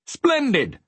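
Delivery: high-pitched delighted exclamation; happy. A narrator's reading. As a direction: exclaim with great pleasure. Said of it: "he said happily".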